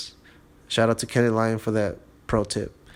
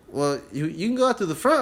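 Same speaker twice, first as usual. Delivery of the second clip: friendly worker voice; 4 semitones higher than usual. Retold or imitated. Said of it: "And he was like".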